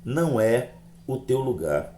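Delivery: slow, measured pronouncement with pauses; halting, weighty retold message; mysterious voice. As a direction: quote an unseen voice solemnly, slowly. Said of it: "a voz dizia assim".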